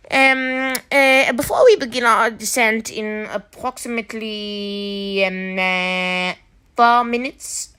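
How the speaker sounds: mock cabin announcement over the intercom; flight attendant announcement. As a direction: play the stewardess announcing landing.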